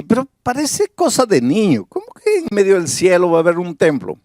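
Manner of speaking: mock skeptic asking how there could be a temple in heaven; imagined skeptic. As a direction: voice a listener scoffing at the idea. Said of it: "tú puedes decir así".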